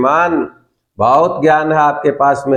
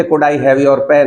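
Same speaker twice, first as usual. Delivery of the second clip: slow, polite drill line; slow model request; much slower than usual. Shown as a demonstration. Teacher models a polite request for students to copy. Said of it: "तो बोलिए".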